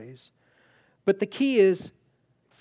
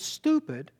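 much higher, brusque rebuke; inner voice of God; 10 semitones higher, slower than usual. Retold or imitated. The voice in his heart scolding him about the pencil, higher and curt. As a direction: bark it like a curt correction. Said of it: "I heard it in my heart".

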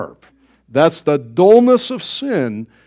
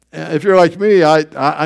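ordinary talk

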